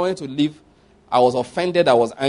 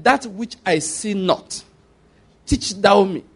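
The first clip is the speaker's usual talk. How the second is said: slow, solemn recited prayer; slow reverent prayer of Elihu; 3 semitones higher, slower than usual. Retold or imitated. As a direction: intone the line slowly. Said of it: "pray the prayer of Elihu".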